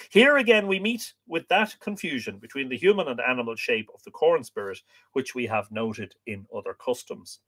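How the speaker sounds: measured, projected reading voice; book reading aloud. Acted. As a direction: read the old text out to listeners with clear phrasing. Reads the book aloud to viewers.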